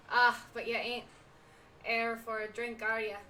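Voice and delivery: loud put-on pirate brogue; amateur pirate accent, punched out; bad pirate accent. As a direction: read it as a hammed-up pirate innkeeper. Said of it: "Incoming bad accent".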